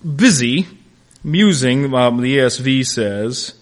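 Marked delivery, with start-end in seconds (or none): 0.0-1.9 lightly mocking, louder taunt; a touch of sarcasm. Preacher echoing Elijah's taunt at Baal, mildly mocking. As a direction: toss the taunt back with a smirk. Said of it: "He's being sarcastic".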